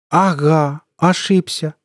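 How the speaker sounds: high, gleeful echo; almost gleeful. A narrator's reading. Colonel doubting the veteran's denial, almost gleeful. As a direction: throw it back with mocking delight. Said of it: "почти радостно сказал Хахашуткин".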